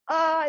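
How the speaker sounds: voiced "ah" releasing a stretch; stretching noise. Shown as a demonstration. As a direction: let out an audible stretch sigh. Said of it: "it's okay to make a noise".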